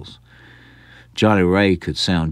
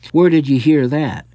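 higher, sharp questioning aunt; indignant question; 7 semitones higher, 4 dB louder than usual. Acted. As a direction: demand it, taken aback. Aunt demanding an answer.

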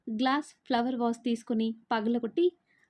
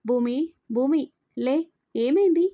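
alarmed calling out; 2 semitones higher, 5 dB louder than usual. Acted. Calling to fainting wife.

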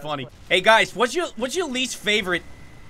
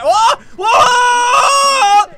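high, very loud startled yell; alarmed yell; 13 semitones higher, 10 dB louder than usual. Real, not acted. Player reacting to the game, high alarmed yelling. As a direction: yell out, the second one long and louder.

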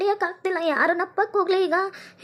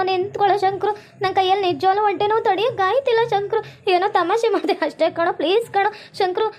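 begging; 2 semitones lower than usual. Acted. Girl begging Shankru to stay.

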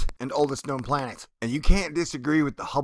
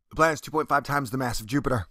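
ordinary talk, nothing marked

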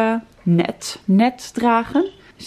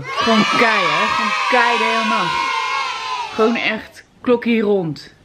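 excited shout. Real, not acted. Excited about baby sleeping through.

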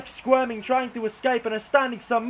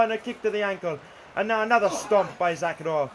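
live wrestling commentary, excited calls; play-by-play commentary. Acted. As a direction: call every move as it lands.

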